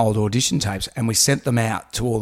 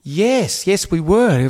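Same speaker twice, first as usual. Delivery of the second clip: higher-pitched voice of a producer; imitated producer; 5 semitones higher, much slower than usual. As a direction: lightly mimic her, pitched up. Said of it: "And she goes".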